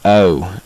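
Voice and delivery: "O" with an exaggerated A-to-O glide; strained Southern O. Shown as a demonstration. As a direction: put on the Southern "O" for teaching. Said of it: "trying to strain my accent".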